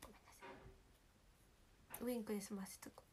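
soft unvoiced whisper to herself; whispered little joke to herself; whispered aside. Real, not acted. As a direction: breathe it as a secret aside. Whispered aside after apology.

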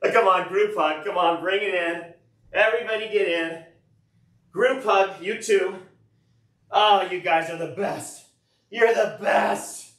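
high, effusive praise, last words drawn out; gushing. Pretend. Thanking the guys in a group hug, high gushing voice.

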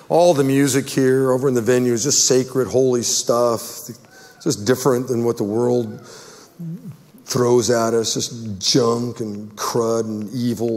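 earnest pastoral prayer voice; closing prayer. Real, not acted. Pastor praying over the church, earnest prayer. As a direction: speak to God for the congregation.

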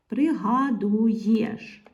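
very slow "пригадуєш", every syllable held. Shown as a demonstration. Teacher presenting the word with a missing letter, drawn out. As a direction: spell ПРИГАДУЄШ out by ear.

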